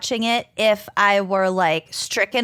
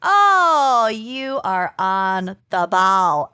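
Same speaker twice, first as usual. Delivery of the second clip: impression of a singer; much slower than usual. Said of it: "our best impressions of a singer".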